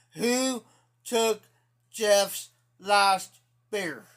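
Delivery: angry demand. Retold or imitated. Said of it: "He got pissed".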